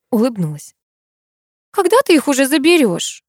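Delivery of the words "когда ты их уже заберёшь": ordinary delivery, nothing marked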